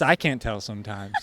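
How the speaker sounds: chuckling as she speaks; light laugh through words; laughing while talking. Real, not acted. Joking about fake laughs.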